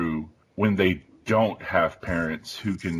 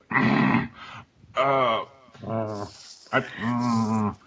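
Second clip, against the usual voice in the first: stammering, higher, lost for words; retold flustered; 3 semitones higher, much slower than usual. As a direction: stall with hums and long gaps. Retold speechless reaction to child.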